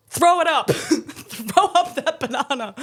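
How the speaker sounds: imitating a furious shout; mock yell. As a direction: bark it like a tantrum. Ex yelling about banana.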